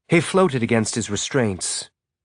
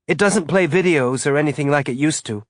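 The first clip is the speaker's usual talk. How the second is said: put-on excited boy; 5 semitones higher than usual. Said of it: "bright with excitement".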